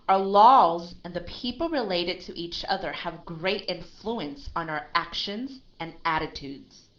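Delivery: even, storytelling read; narrative voice. Shown as a demonstration. Teacher finishes the passage in a narrative voice. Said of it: "I'm reading in a narrative voice".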